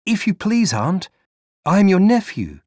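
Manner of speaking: put-on high, timid boy's voice; a small runaway boy pleading to his aunt; young boy, hesitant plea; boy nephew.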